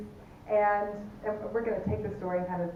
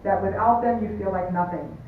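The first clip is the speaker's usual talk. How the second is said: mock sentimental. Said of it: "How's that for a, a Hallmark card".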